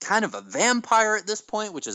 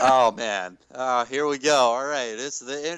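feigned, listless commentator voice; 4 semitones lower than usual. Imitating JR when his enthusiasm drops, JR, mock-unenthusiastic. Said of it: "2 in terms of enthusiasm".

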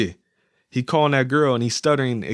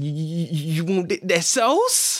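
high voice, heavy stutter on first words; 6 semitones higher than usual. Imitating a movie character described as having a bad stutter: imitating Moochie's stutter. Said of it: "portrayed to have a real bad stutter".

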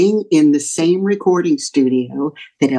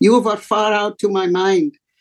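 put-on Norwegian accent, pitched up; 5 semitones higher than usual. Retelling what people said while asking him to sign an EP, Norwegian accent. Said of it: "I won't try to do a Norwegian accent, maybe I will".

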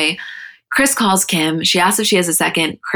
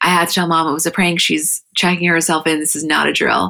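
ordinary talk, nothing marked

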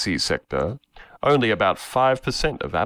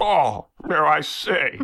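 put-on very slow, odd, weird elderly drawl, old man voice; 8 semitones higher than usual. Quoting a colleague's tweet: weird old man voice. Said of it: "in his weird old man voice".

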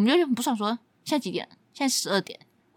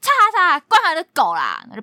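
shout, much higher pitched; 6 semitones higher, 8 dB louder than usual. Recalling opening the door on a noisy person, retelling own shout. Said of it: "我就大喊说".

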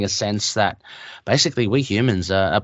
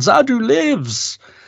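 shrill, very high, acted-out shouted cry; 13 semitones higher than usual. Retelling how Zadu, loving it, shouts out loud; imitating a shout. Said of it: "he just shouts out".

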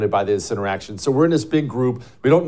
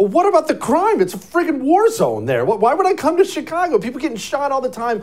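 very high, mock huffy and puffy indignant rant; 13 semitones higher than usual. Retelling a man at a dinner table complaining about Chicago, mock huffy and puffy. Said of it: "he gets all huffy and puffy about Chicago".

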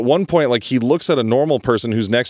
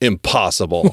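put-on disgusted tough-guy voice, lower pitch; 4 semitones lower than usual. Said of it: "a pause, like, he thinks about that and he goes".

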